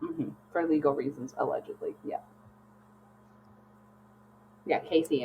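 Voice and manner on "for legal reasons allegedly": softer, fading "allegedly" almost whispered; echoed disclaimer. Shown as a demonstration. Echoing her friend's joke legal caveat, fading to a whisper. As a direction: let "allegedly" trail off into a breath. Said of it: "echoing disclaimer".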